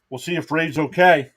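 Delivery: rough, raspy throat; raspy like a TV cop. Real, not acted. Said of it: "I sounded like that cop on Chicago P D with the raspy voice".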